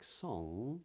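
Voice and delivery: "song" with a clean nasal ng and no hard g; modern british accent. Shown as a demonstration. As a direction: say "song" ending on a soft ng. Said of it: "in a word like".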